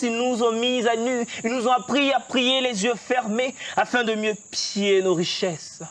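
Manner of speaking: impassioned spoken-word recitation; slam poetry. Shown as a demonstration. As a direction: declaim it like a stage poet. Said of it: "Tu nous déclames un texte?". (slam engagé déclamé avec passion)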